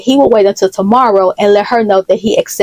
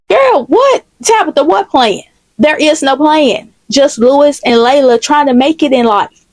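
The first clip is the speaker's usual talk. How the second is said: incredulous; 5 semitones higher than usual. Acted. Denies accusation of a plan.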